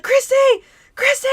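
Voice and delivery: high-pitched imitation of friends calling; retold calling out. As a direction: call a name across a distance, acted. Friends calling her over the fence.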